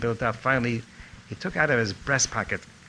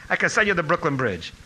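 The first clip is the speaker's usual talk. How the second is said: higher-pitched mock exasperation; retold fury; 6 semitones higher, 3 dB louder than usual. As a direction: dismiss the student with raised pitch. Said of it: "he was furious at me".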